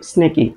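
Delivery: "স্নেকি" run together as one word; said quickly together. Shown as a demonstration. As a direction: blend the opening s straight into "স্নেকি". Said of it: "দ্রুত উচ্চারণ করি".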